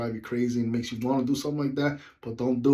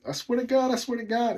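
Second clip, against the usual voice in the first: higher mock angry vow; threatening; 11 semitones higher than usual. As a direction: vow it twice, heated. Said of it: "she's like".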